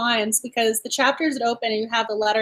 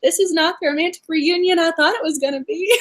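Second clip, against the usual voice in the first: laughing mock lament; 2 semitones higher than usual. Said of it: "You're going".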